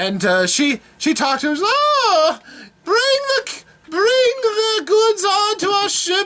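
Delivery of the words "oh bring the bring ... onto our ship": put-on affected lady's voice, much higher, slower. Retelling a story and voicing Lady Maybelle, in an affected Lady Maybelle voice. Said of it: "I love affected voices".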